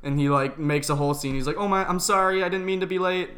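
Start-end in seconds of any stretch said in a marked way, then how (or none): 1.6-3.3 high, fretful apologizing; flustered apology. Retold or imitated. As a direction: gush the apology nervously. Anxious classmate imitated.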